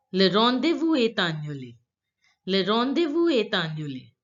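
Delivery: "est annulé" run together with a T; whole phrase joined, "est annulé" as "eh-tannulé"; French liaison. Shown as a demonstration. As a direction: sound the T linking "est" to "annulé". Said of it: "link the words together this way".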